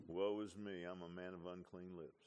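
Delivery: low, very soft murmur; understated, wrong way. Shown as a demonstration. Preacher showing how Isaiah didn't say it, soft and low. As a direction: say it meekly, low and barely voiced. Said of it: "he didn't say like this".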